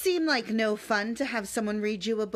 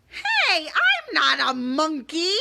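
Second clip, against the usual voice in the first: mock protest; 6 semitones higher, 6 dB louder, slower than usual. Protesting the book's silly words.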